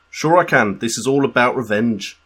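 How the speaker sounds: put-on a shaky Scouse accent as a footballer being interviewed; bad Liverpool accent put on for laughs. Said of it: "I've got a Liverpool accent".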